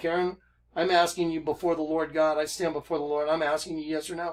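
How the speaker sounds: ordinary talk, nothing marked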